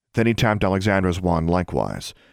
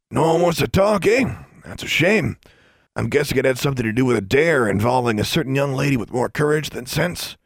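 stern man; 7 semitones higher than usual. A narrator's reading. Journey scolding the kids.

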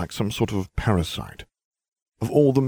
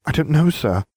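put-on high girl voice; 8 semitones higher, 3 dB louder than usual. Hermione voiced.

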